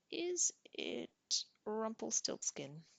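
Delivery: teasing guess. Acted. Tanith teasing the troll with her last guess, high and slow. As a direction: play innocent with a silly final guess.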